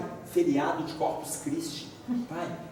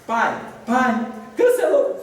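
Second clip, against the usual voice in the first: higher, louder mock sob; crying daughter; 6 semitones higher, 5 dB louder, slower than usual. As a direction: imitate her crying out. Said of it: "para de chorar".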